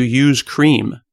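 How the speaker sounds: "use cream" slow and separated; clearly enunciated. Shown as a demonstration. Explaining the misheard coffee question, "use cream" clearly separated. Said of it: "She's asking if you".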